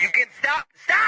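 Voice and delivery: 1 pleading shout. Acted. Pleading with gambler.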